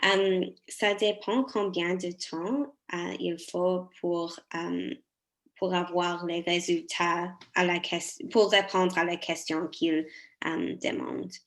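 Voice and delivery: French with a non-native accent; careful second-language French, foreign accent. Real, not acted. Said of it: "je m'excuse si mon français n'est pas très bon".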